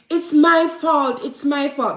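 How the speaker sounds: high, loud imitated child's cry, slow; imitating crying child. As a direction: echo a little girl sobbing out it's my fault. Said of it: "when me hear she a crying".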